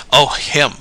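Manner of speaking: mild scornful snort. Acted. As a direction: brush the man off with a snort. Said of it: "snorted Charlie".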